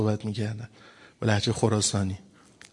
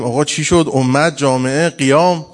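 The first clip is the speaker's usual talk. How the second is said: mock loud nagging; 2 semitones higher, 7 dB louder, slower than usual. People nagging imam to rise.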